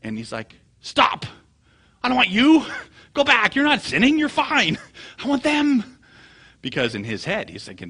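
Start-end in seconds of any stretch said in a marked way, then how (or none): 0.8-6.0 high, very loud frantic protest; exasperated mock shout. Preacher to old ladies coming down crying, frantic mock shouting. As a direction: yell it as a hammed-up preacher losing his plan. Acted preacher halting the wrong penitents.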